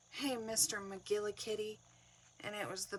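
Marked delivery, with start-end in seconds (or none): 0.1-1.8 a louder, exasperated "Hey, Mister McGillicuddy"; frustrated call. Retold or imitated. Mom scolding her cat Salem, a louder exasperated call. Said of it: "I got really frustrated with Salem".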